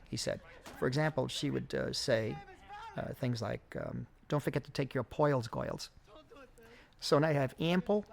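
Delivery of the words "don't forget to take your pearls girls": put-on poils and goils, lightly done old New York accent; a light touch of an old New York lady's accent on poils and goils. Missus Jones telling the girls to take their pearls, light old New York accent. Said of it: "Missus Jones' accent was much more, much more interesting".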